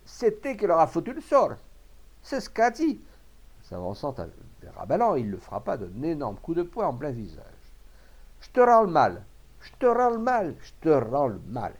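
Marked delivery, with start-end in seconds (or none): 0.1-3.0 high, loud accusation; angry outburst. A narrator's reading. Enraged farmer accusing Rabalan of the curse, yelling. 8.4-11.7 high, loud repeated curse, easing down; furious shouting. A narrator's reading. Farmer punching Rabalan, shouting furiously with each blow. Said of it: "son poing furieux".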